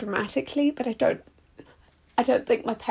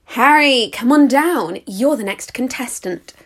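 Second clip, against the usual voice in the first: game show host; 4 dB louder, slower than usual. Acted. Game show host calling contestant.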